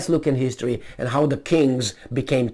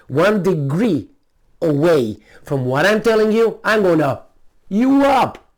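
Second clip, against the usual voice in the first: loud, threatening tirade, higher and louder; mock furious king; 4 semitones higher, 5 dB louder than usual. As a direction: bark orders like a brutal king. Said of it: "Instead of saying".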